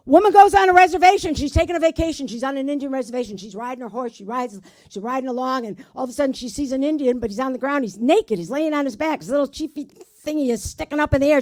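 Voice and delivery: quick, run-on joke telling; hurried delivery. Real, not acted. Comic racing through the reservation joke, hurried delivery. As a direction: rattle through the setup. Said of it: "say it really fast".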